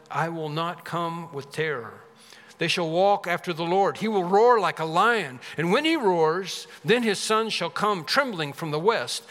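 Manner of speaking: emphatic, measured Bible reading; scripture reading. Acted. Preacher reads God's words to the congregation, emphatic scripture reading. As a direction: read the passage out with weight.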